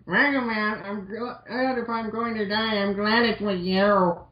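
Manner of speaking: high, slow, hammed-up girl voice; voicing Roll. Reading Roll's line to Mega Man, high and slow hammed-up. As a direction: melodramatic dying-heroine plea, high and slow.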